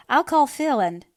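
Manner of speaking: high, loud, cut off mid-word; hurried escape. A narrator's reading. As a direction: blurt it out to get away. Anne trying to flee, cut off.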